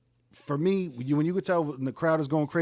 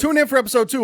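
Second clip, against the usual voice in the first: announcer voice; 8 semitones higher, 8 dB louder, faster than usual. Acted. Host cutting in, announcer style.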